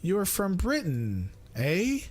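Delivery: high, teasing mock question. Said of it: "if I want to bug someone".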